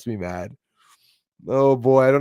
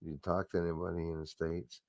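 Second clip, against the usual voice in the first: quieter, mumbled imitation of the official; corrected mock quote; 5 semitones lower, 15 dB quieter than usual. Correcting the quote, then muttering the official's question. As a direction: redo his question softly, the way he really said it. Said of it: "No, he goes".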